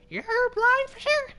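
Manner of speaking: piercing falsetto cartoon mouse, loud; Mickey. Streamer teasing himself as blind, squeaky cartoon mouse falsetto. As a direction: squeak it out as an off-mark mouse impression. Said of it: "that wasn't a good Mickey accent".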